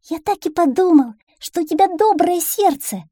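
very high, loud, happy duckling; delighted little duckling. Acted. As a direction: rejoice like a trusting little duckling. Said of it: "обрадовался самый ужасный обжора". (обрадованный утёнок, высоко и звонко)

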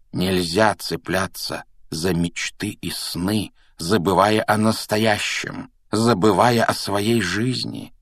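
slow, earnest counsel, lightly voiced; mentor Dumbledore. Dumbledore warning Harry about living in dreams, slow and earnest. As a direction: advise with measured, drawn-out emphasis.

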